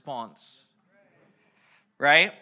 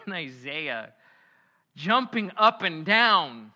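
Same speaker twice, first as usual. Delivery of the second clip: excited; 5 dB louder, slower than usual. Acted. Preacher acting out Isaiah.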